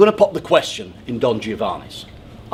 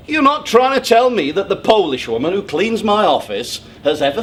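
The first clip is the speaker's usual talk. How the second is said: higher and louder, building toward a near shout; heated rant; 5 semitones higher, 5 dB louder than usual. Acted. Man ranting to audience about love, scornful building shout. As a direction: climb into a scornful tirade about ordinary people. Ranting against romantic notions.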